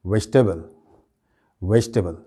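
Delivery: "वेजिटेबल" run together as VESH-tebal; joined-up "वेजिटेबल", vej-tebal; correct pronunciation. Shown as a demonstration. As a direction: say "वेजिटेबल" fluently without the middle i. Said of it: "सही pronunciation क्या है".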